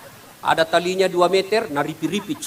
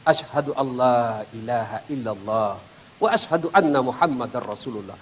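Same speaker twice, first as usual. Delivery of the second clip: low, soft, devout recitation; solemn answer; 7 semitones lower, 5 dB quieter than usual. Acted. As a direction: recite the creed quietly and calmly. The dead man's prayer answers. (ucapan syahadat yang rendah dan khusyuk)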